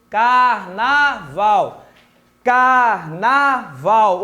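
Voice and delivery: "Carnaval" very slow, each of three syllables sounded apart. Shown as a demonstration. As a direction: spell out "Carnaval" in three slow beats, car-na-val. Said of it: "o tio pronunciou três vezes". ("Carnaval" bem devagar, sílaba por sílaba)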